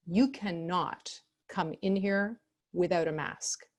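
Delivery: slow, cold and final, no room to bargain. Shown as a demonstration. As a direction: lay down the rule slowly and coldly. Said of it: "you speak slowly and very, very coldly".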